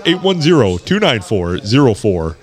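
Clark Ramsey voice. Shown as a demonstration. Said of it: "I gotta do it Clark now".

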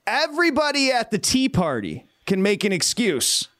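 high, slow, sing-song mockery of Boston's excuses; drawn-out, teasing roll call of excuse makers; mocking list. Host taunting Boston fans, high slow sing-song mockery.

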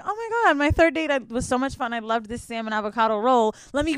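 hammed-up proper lady voice; prim girly voice. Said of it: "I'm not gonna just be like".

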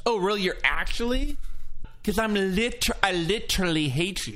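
sarcastic. Pretend. Mock retort to fan.

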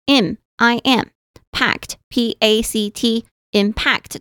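each letter slow and deliberate, then impact; spelled out slowly. Shown as a demonstration. Teacher spelling the word for learners, slow and deliberate. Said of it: "重音节在后面哦".

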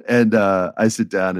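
normal talking voice

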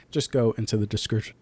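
small burp while talking; words broken by a burp. Real, not acted. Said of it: "Sorry, I did a little burp there".

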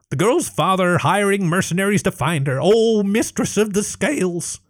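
high, broken-English little creature; kobold voice. A narrator's reading. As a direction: grovel like a timid kobold. Kobold leader reports.

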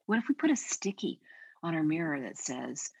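ordinary talk

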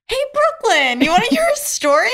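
put-on high, loud, wide-awake little girl voice; squeaky eager kid nagging her big sister at bedtime; imitating little sister. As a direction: play the chatty toddler who won't sleep. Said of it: "she'd be like".

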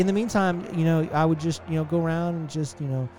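lightly voiced stoned guide; a hint of a spaced-out stoner. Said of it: "He's like".

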